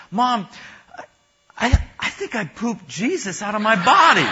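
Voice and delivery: put-on a child's high, worried voice; scared little boy. Little boy tells his mom a scared confession, high child voice. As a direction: tell mom the awful news, high and earnest. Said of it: "scared look on his face and says".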